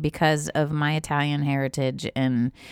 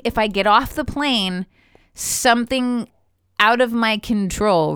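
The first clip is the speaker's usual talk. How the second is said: higher-pitched, worried retelling; retold anxiety; 5 semitones higher than usual. Traveller retelling fear of leaving the plane, mild anxiety. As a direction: recount the panic, voice lifted.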